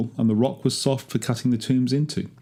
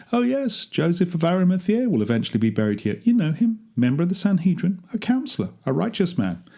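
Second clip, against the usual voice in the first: much higher, eager sales patter; salesman's pitch; 8 semitones higher than usual. Retold or imitated. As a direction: show off the tomb to a customer. Boasting to customers about Joseph.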